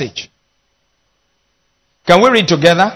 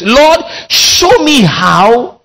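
slow plea; 4 semitones higher, slower than usual. Acted. Closing plea to God.

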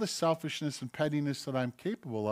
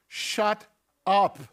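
a sudden, louder "shut up"; blunt shout; 5 semitones higher, 4 dB louder than usual. Acted. Preacher voicing scripture silencing every mouth, blunt and louder. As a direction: slam it down like a rebuke.

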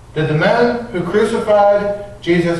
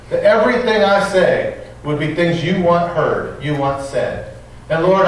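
prayer. Acted. Pastor praying for the congregation before the sermon, earnest. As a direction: pray humbly over the congregation.

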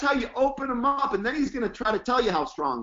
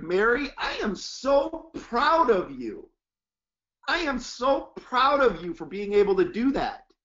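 amped-up praise. Shown as a demonstration. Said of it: "You gotta get amped up".

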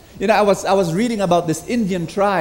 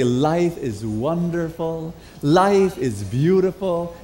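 slow cheerful affirmation; slower than usual. Pretend. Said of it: "wake up in the morning and say".

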